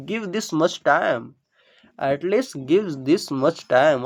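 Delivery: slowly, word by word; slow dictation. Shown as a demonstration. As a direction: draw every word out for the class. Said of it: "तो क्या बोलेंगे?". (बहुत धीरे बोलकर)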